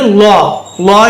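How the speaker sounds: லா as a rounded 'lo', Arabic Zaa; thick, rounded vowel in லா; tongue-to-roof heavy sound. Shown as a demonstration. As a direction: stick the tongue up for லா. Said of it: "என்று உச்சரிக்க வேண்டும்".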